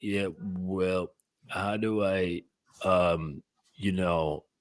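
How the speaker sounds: flat, lifeless, very slow voice. Imitating how the caller sounds when talking: imitating a lifeless voice. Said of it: "you sound lifeless".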